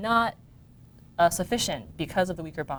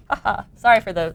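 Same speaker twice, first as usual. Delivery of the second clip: nervous laugh; 8 dB louder than usual. Real, not acted. Apologizing for an error in video.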